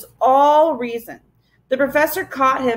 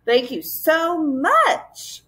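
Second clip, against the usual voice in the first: very slow, higher, overly polite; 6 semitones higher, much slower than usual. Acted. Tom answering the mocking Gaboon, slow and politely. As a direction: kill the insult with sweetness. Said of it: "Tom managed to say politely".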